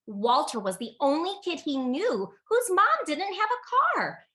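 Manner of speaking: plain reading voice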